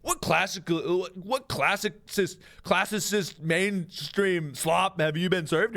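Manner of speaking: slow, sneering cinephile drawl; haughty movie snob; snobby film critic. Acted. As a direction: look down on mainstream films. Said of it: "You go".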